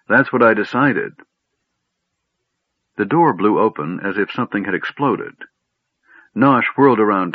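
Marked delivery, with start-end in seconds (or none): 0.1-1.1 higher, mildly plaintive; a touch of misery in a raised voice; miserable. A narrator's reading. Gnome admitting his conclusion to Tas, miserably. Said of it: "Nosh said miserably".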